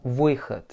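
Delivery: выход with о losing its O sound; unstressed O reduced. Shown as a demonstration. Teacher showing the unaccented vowel in выход, reduced O. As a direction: say выход, accent on ы, weak a-like о. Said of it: "le O va perdre sa sonorité de O".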